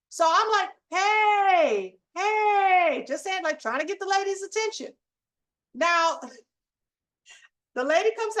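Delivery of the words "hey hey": raised voice calling across a parking lot; calling out hey. Retold or imitated. To the lady taking their space, a mild call. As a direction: get a stranger's attention, call hey hey.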